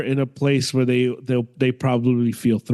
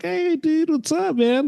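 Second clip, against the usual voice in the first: high, bright "hey dude" greeting; friendly greeting. Retold or imitated. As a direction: greet like a chill friendly guy. Friendly fighter greeting quoted.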